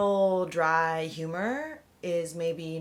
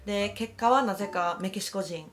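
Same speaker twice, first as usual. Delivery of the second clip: stand-up opener; 2 semitones higher, much faster than usual. Retold or imitated. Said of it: "I was like".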